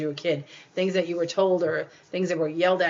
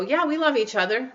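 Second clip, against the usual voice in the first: hesitant, higher, half-hearted; unsure; 5 semitones higher than usual. Retold or imitated. Partner asked about the rest of their lives, hesitant and unsure. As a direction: sound unconvinced about forever. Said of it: "just the person to go".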